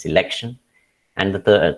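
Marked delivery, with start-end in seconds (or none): 0.1-0.6 "selection" stressed on LEC; se-LEC-tion, weight in the middle; stress on second syllable. Shown as a demonstration. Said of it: "the second syllable stressed".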